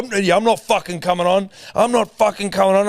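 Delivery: high, emphatic mock yelling; worked-up, sweary retold outburst; retold angry refusal. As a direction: imitate an irate guest refusing point-blank. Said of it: "he screamed at me once down the phone".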